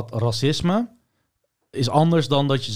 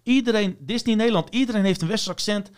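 indignant outburst; 6 semitones higher than usual. Real, not acted. Indignant rant about Disney accents.

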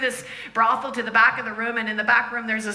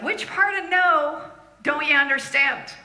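exasperated lady; 5 semitones higher, 4 dB louder than usual. Retold or imitated. Lady rebuffs them at the door.

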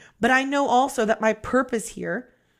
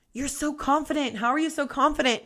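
higher, softer, quick admiring quote; lightly voiced impressed onlookers; imitating admirers; 4 semitones higher, 5 dB quieter, faster than usual. People praising the speaker, lightly mimicked admiration.

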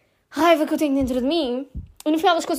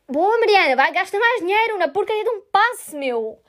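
sarcastic to herself; 5 semitones higher than usual. Retold or imitated. Sarcastic self-talk.

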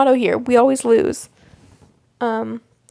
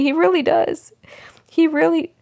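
whisper; 4 semitones higher than usual. Real, not acted. Unvoiced whisper about showrunner.

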